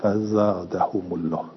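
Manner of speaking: فزادهم with the long a bent toward an i sound; imala demo. Shown as a demonstration. Teacher shows students the imala, alif leaning toward ye. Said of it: "یعنی اینجوری تلفظ کردن".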